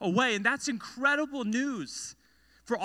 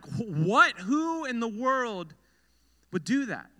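incredulous. Acted. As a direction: act out baffled listeners, slowing down. Listeners' stunned reaction to the story.

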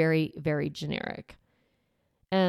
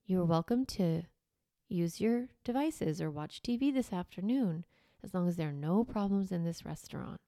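calm firm reminder; 5 dB quieter than usual. Shown as a demonstration. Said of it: "look them in the eye, and say".

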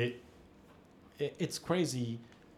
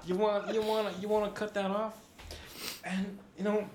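stoner bro voice; 10 semitones higher than usual. Pretend. Stoner voice continues.

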